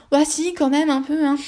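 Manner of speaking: cheeky self-reply. Pretend. Answers her own disclaimer jokingly.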